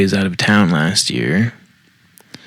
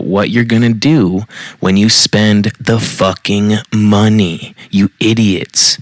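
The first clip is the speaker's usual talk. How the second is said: exasperated; slower than usual. Real, not acted. Exasperated rant at spouses about money.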